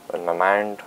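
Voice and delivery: badly faked Italian accent; clumsy, half-hearted Italian accent; failed Italian accent. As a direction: attempt an Italian accent and miss. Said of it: "I can't do an Italian accent at all".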